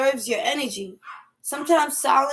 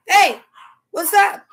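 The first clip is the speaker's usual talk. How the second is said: cheery greeting; 7 semitones higher, 6 dB louder, slower than usual. Retold or imitated. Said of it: "I get there".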